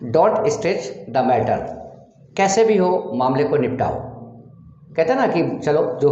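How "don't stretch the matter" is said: 1 slow demo. Shown as a demonstration. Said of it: "teacher demonstrates English sentence".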